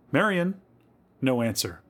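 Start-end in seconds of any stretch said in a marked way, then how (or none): 0.1-0.6 high, urgent call of a name; alarmed calling. A narrator's reading. Louise searching for Marion, calling in alarm. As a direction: call for a missing child.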